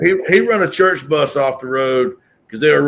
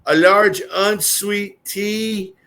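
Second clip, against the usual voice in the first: mock polite order; 5 semitones higher, much slower than usual.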